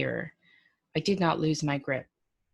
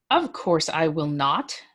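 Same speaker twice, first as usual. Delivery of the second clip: huffy, drawn-out refusal, a bit louder; a mild, slightly louder huff of indignation; 4 dB louder than usual. Acted. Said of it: "I said huffily".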